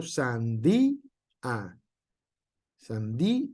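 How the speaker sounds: «sandía» con corte entre «dí» y «a»; hiato marcado. Shown as a demonstration. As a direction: decir «sandía» separando la «í» acentuada de la «a». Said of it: "hace que se corte el sonido". (ejemplo de hiato en clase)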